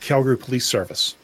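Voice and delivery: ordinary talk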